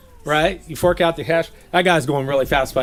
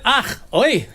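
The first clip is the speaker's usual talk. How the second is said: jokey high Yiddish-style grunt; a lightly played old Jewish grumble; mock Yiddish exclamation; 7 semitones higher than usual. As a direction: toss off a mock Yiddish "ach, oi". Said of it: "they said".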